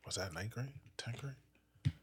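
unvoiced whisper, asking himself the grade. Real, not acted. Trying to recall the school year, in a whisper. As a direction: whisper it under your breath, half to yourself.

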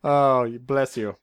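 loud, relieved thank God; mock relief. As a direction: overplay the relief. Relieved at the fork offer.

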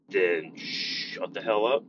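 slow, deadpan put-down; slow blunt retort. Retold or imitated. Teacher shutting down a rude student, slow and blunt. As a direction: flatly tell the kid to shut up.

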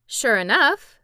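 loud sudden realisation; exclaimed. A narrator's reading. Tip realising the horse has no ears, exclaiming. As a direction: exclaim it as it dawns on you. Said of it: "exclaimed Tip".

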